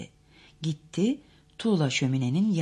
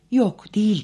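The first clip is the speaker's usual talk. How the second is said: firm denial; 6 semitones higher, 9 dB louder than usual. A narrator's reading. Narrator contradicts Daisy.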